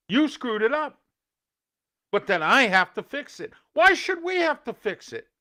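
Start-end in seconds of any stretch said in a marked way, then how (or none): 3.7-5.3 high, raised outraged why; real exasperation at agencies; indignant question. Real, not acted. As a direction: push the unfairness hard. Ranting at public agencies.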